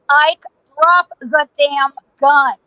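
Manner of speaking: mild slow command, word by word; slow stern order. Retold or imitated. Lawman ordering Ike to drop his gun, slow command. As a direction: order him slowly and deliberately.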